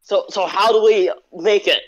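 put-on Aussie questioning; bad Australian accent. Australian friend asks about making Pop-Tarts, put-on Australian accent. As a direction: ask it as a mock Australian friend. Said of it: "my shitty ass Australian accent".

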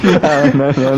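no-no through laughter; laughing protest. Real, not acted. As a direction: protest while cracking up. Laughing during a chaotic round.

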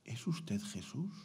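soft whisper, slow and wondering; whispered question. Retold or imitated. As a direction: whisper it to yourself in awe. Man repeats girl's question.

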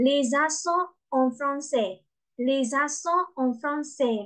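"Les accents en français" with silent endings; silent final S. Shown as a demonstration. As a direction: drop the last S of "accents" and "français". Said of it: "Les accents မှာ S အသံမထွက်ဘူးနော်".

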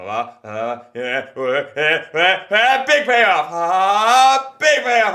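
rising from talk to a high shout; building momentum. Shown as a demonstration. Comic shows how momentum builds to the payoff, building to a shout. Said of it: "build the momentum into the big".

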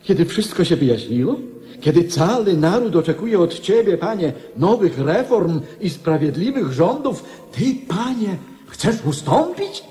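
incredulous protest. Acted. Minister protests king's abdication.

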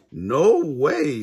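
high, loud storybook protest; emphatic refusal. A narrator's reading. Shaggy refuses the witch.

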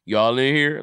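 unvoiced whisper as a chewing goat. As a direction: hush it like a goat caught eating. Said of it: "looking at you like".

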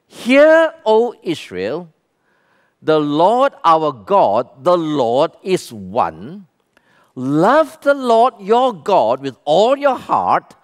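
slow, solemn reading of the verse; scripture reading. Acted. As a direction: read it out reverently. Reads scripture aloud.

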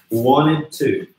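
"Wanted to" said "won-ed to"; no T inside "Wanted", full "to" after it; T mudo. Shown as a demonstration. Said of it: "a gente pronuncia aqui wanted". ("Wanted to" como "uóned tu")

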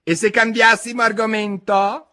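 high, loud yawned interruption; bored March Hare yawn, pitched high. A narrator's reading. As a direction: cut in through a yawn. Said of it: "interruppe la lepre marzolina con uno sbadiglio".

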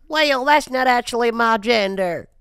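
high, slow, put-on prissy voice; mocking a child correcting a stranger; mock indignant. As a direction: act offended, drawn out and high. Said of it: "And you went".

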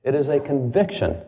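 "conviction" given deliberate weight; stress on conviction. Acted. Lecturer repeating Jefferson's words to his audience, stress on "conviction". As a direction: lean on the word "conviction". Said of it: "I would emphasize the word conviction".

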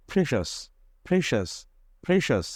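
ফ্রেশাস with a শ sound. Shown as a demonstration. Teacher drilling the word for students. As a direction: repeat ফ্রেশাস with শ. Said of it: "এটাও হবে এরকম".

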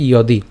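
"ইয়দি" opened with a clear y sound; pronunciation demo. Shown as a demonstration. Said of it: "এর উচ্চারণটা কেমন হচ্ছে". ("ইয়দি" য়-ধ্বনিতে স্পষ্ট উচ্চারণ)

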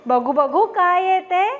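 eager crow voice. Acted. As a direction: crow pleading keenly, pitch climbing. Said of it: "कावळेदादा म्हणतो".

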